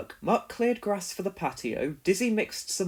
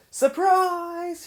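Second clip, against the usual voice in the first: a much higher, louder joyful shout; 13 semitones higher, 5 dB louder than usual. A narrator's reading. The team surprises Wendy with her garden, a loud shout. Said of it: "shouted the team".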